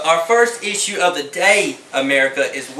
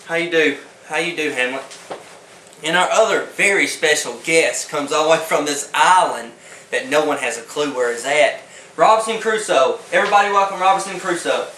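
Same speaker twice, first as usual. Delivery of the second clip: talk show host. Acted. Parody talk show host opening.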